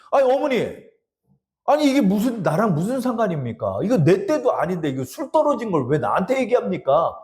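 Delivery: object, half-annoyed; protesting son. Retold or imitated. Jesus voiced protesting.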